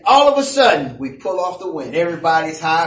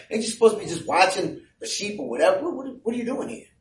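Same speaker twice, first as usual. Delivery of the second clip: mild belittling, dropping softer at the end; diminishing brother; 5 dB quieter, faster than usual. Acted. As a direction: brush a younger brother off dismissively. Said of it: "he's diminishing him".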